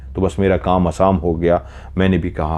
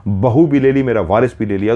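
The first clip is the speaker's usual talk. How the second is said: raised-pitch, aggrieved appeal to God; mildly acted anguished complaint; pleading lament; 4 semitones higher than usual. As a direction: plead with God over repeated loss. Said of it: "बहुत गिड़गिड़ाया था".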